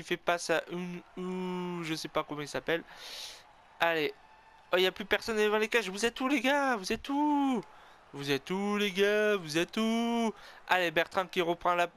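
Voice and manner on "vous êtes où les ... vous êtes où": high-pitched calls to absent teammates; pleading calls of "where are you, guys"; calling out. Real, not acted. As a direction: call out for the missing players. Calling out to his players.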